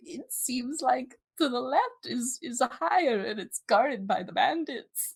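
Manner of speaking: a hint of old guide, unhurried; very old man. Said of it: "I was gonna do an old man voice".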